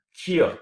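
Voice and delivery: "Here" leaning upward, then a pause; stress going up. Shown as a demonstration. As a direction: lift "Here" as the strong syllable. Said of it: "it again goes up".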